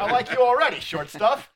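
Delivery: bright, loud and high; playful tease. Acted. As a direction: tease him fondly. NPC teases a small crew member.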